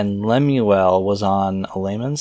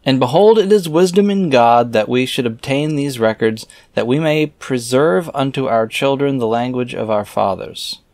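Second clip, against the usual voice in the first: raised, measured reading voice; scripture reading; 3 semitones higher than usual. Acted. Reader reciting scripture verses aloud in a solemn reading voice. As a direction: read the old verses out with solemn weight.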